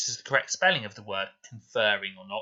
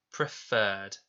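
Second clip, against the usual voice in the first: "Preferred" with a long, stressed second syllable; long stressed fur. Shown as a demonstration. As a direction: hold and stress the "ferred" in "Preferred". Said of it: "It's making that long sound".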